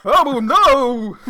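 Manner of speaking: high, loud "oh no" through laughter; laughing mock dismay. Real, not acted. Laughing at the dog voice, mock dismay.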